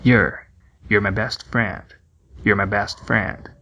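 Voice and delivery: your dito "yur", curto e fraco; your reduzido. Shown as a demonstration. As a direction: encurte o your. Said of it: "a redução da palavra your". (your reduzido e rápido)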